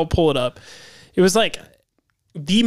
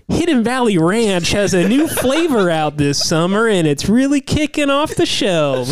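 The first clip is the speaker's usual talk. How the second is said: slow, slightly higher commercial read; 4 semitones higher than usual. Acted. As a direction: sell it like a radio ad. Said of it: "It'd probably be more like".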